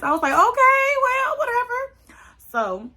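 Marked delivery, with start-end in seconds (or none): 0.3-1.8 high, breathy brush-off "okay, whatever"; mock dismissive. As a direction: act like you don't care, pitched way up.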